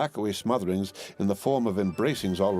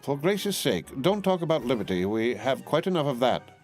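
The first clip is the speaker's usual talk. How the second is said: higher, huffy protest; fed up with liberty talk; exasperated Miss Pross; 6 semitones higher than usual. A narrator's reading. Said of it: "said Miss Pross".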